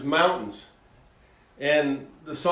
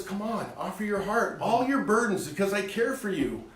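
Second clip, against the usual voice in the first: much softer, gently coaxing; tender God voice; 2 semitones higher, 6 dB quieter than usual. Pretend. Host voicing God inviting listeners to give burdens, soft and tender. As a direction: invite them in quietly, like a caring father.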